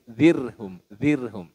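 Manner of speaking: "zirhum" with a thin, light r; light tarkik r in "zirhum". Shown as a demonstration. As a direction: say "zirhum" with a thin rolled r, no vowel after it. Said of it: "kalau tarkik dibaca tipis".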